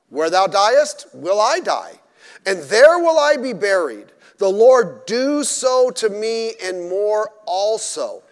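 loud, measured preaching of the vow; scripture reading. Acted. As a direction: proclaim each line like a solemn oath. Preacher reading Ruth's vow aloud.

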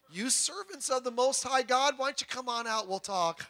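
changed, conciliatory tone. Retold or imitated. King inviting God's servants out to talk, conciliatory. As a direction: lightly imitate a king turning friendly. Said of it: "then he changes his tone".

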